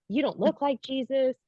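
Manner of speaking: high-pitched, mortified replay of own words; embarrassed self-quote. Retold or imitated. Woman realizing Jesus heard her thoughts, embarrassed. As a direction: quote yourself in a high, sheepish voice.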